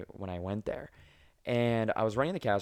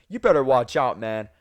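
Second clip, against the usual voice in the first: threatening; 7 dB louder than usual. Retold or imitated. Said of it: "And he's like".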